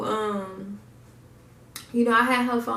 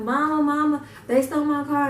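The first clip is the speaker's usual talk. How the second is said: raised, urgent call for mom; panicked call; 4 semitones higher than usual. Retold or imitated. Running to her mom after the theft, urgent. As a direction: call for help in alarm. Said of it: "I was beating on the door".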